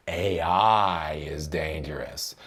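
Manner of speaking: said slow and heavy, mocking the hype; slow mock gravity. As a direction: drag it out like a scare slogan.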